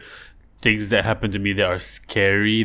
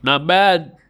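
impressed taster; 8 semitones higher, 6 dB louder than usual. Pretend. Fisherman tastes the dried fish.

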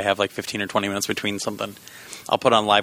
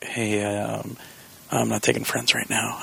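imitated whispering; 6 dB quieter, slower than usual. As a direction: softly imitate a kid whispering. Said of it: "he just kept whispering the whole time".

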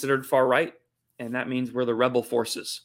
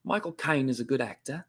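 corrected, lightly done Cockney accent; Michael Caine; 2 semitones lower, 4 dB quieter than usual. Shown as a demonstration. Host retrying after drifting Australian, Cockney accent. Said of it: "I think of Michael Caine".

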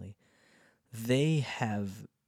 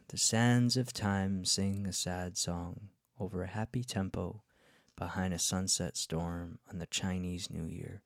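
poem reading. Shown as a demonstration. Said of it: "this is a song I wrote".

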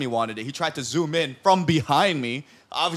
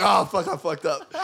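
laughing panic; 2 semitones higher than usual. Retold or imitated. Realizing he messed up, laughing.

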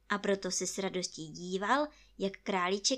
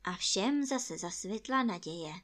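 usual speaking voice

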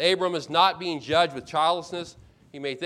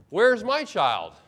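slow, higher-pitched plea as Abram; pleading demand; 5 semitones higher, 4 dB louder, much slower than usual. Retold or imitated. Childless Abram questioning God, drawn-out pleading demand. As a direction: stretch it into an aching demand.

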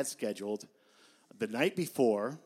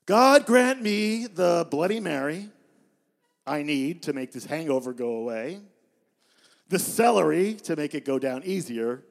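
mock prayer; 6 dB louder than usual. The speaker leads the serenity prayer as a Bloody Mary recipe, loud and solemn. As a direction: intone it like a prayer.

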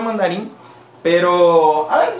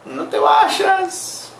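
mock plea; 11 semitones higher, much slower than usual. Begging a viewer to stay.

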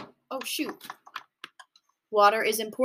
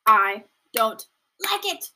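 slow, louder pointed disapproval; flat disapproval; 6 dB louder, slower than usual. Real, not acted. Reacting to the producers' deal, slow pointed disapproval. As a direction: lean into the dislike. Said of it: "emphatic disapproval".

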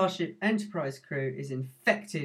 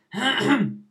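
squeaky gleeful gremlin giggle; 4 semitones higher, 3 dB louder than usual. Acted. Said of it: "I can do the Mogwai song".

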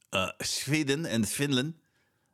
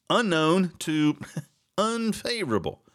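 laughing; 6 semitones higher than usual. Real, not acted. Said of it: "varies from".

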